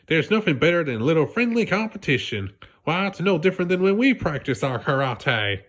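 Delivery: lightly voiced Sandy encouraging SpongeBob; cheerful Sandy. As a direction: reassure your friend brightly.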